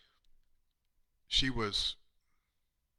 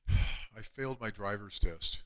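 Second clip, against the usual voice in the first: mock tearful. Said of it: "puppy dog eyes and crying".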